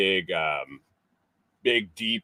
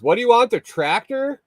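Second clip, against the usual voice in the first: quoting the guy; 14 semitones higher, 4 dB louder than usual. Retold or imitated. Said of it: "he goes".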